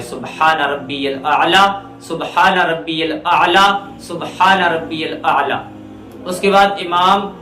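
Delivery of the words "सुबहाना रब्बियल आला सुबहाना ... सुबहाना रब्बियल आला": tasbih recitation. Shown as a demonstration. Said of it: "ये तस्बीह पढ़ना है".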